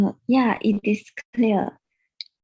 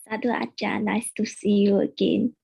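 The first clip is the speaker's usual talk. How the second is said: louder, clearer repeat of the greeting; speaking louder. Real, not acted. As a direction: repeat it louder so they can hear. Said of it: "Speak louder, please".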